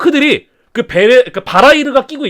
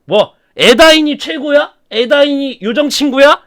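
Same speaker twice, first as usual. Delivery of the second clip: slow, higher sneering taunt; villain taunting a prisoner; mocking Sauron; 6 semitones higher, slower than usual. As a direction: scoff at the captive's pride. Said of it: "사우론이 이야기자, 얘기하죠".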